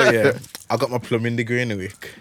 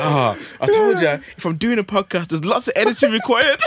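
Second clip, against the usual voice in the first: mock excuse, laughing; 11 semitones higher, 5 dB louder than usual.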